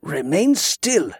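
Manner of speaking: slow, measured command; firm order. A narrator's reading. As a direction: order the patient to hold still, slowly. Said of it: "Grievous ordered".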